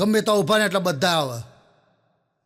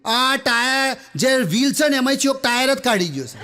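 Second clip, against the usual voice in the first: retold shout; 5 semitones higher than usual. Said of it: "મોટેથી બૂમો પાડવા મળ્યો".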